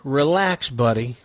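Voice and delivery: soft and calm, fading away at the end; relaxed, controlled voice. Retold or imitated. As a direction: stay cool and coax the kid quietly. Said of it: "in a very relaxed and controlled voice".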